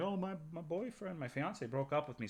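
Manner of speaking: weepy, sobbing, tearful voice. Retelling a call from a friend: imitating someone crying. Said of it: "she called me crying".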